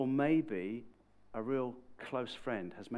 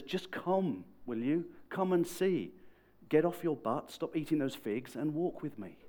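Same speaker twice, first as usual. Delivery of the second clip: insistent, higher-pitched coaxing; urging; 4 semitones higher, 3 dB louder than usual. Retold or imitated. Philip urging sceptical Nate to come and see, insistent. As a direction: press him to get moving.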